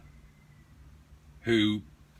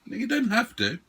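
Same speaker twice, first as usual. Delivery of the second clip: loud, higher playful scolding; mock stern teasing; 4 semitones higher, 5 dB louder than usual. Real, not acted. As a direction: scold him in jest. Teasing the other player.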